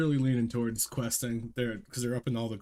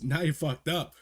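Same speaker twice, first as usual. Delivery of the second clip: crab voice; 5 semitones higher than usual. Retold or imitated. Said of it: "the other crab goes".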